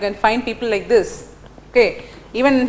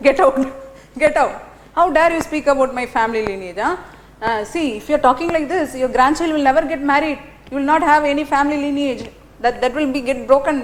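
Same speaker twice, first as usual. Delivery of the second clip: retold angry curse; 3 semitones higher than usual. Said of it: "She became very angry".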